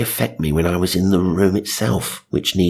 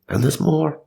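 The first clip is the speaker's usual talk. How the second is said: 1 mock announcer; 8 semitones higher than usual. Shown as a demonstration. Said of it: "But there was more".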